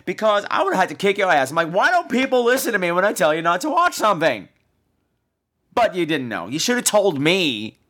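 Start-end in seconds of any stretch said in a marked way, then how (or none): 1.7-4.5 exasperated rant. Retold or imitated. Host quotes own exasperated rant.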